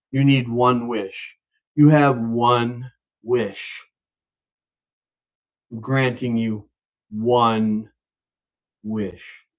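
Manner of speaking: low, very slow pronouncement; solemn genie. Acted. Genie granting guy one wish, low slow solemn voice. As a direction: intone each word slowly and low.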